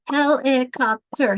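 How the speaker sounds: helicopter said slowly as he-li-cop-ter; slow helicopter broken into syllables; clapped syllables. Shown as a demonstration. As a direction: clap out each beat of helicopter. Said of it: "I was clapping them".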